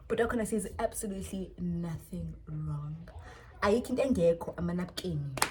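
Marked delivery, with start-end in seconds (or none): 0.1-3.0 soft, breathless laughing whisper; wheezy laughing disbelief; whispered laugh-cry. Real, not acted. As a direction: half-whisper through laughter.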